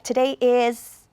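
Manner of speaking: slow "Today is" then a stop; wrong pause after is. Shown as a demonstration. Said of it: "don't want to pause after a small verb".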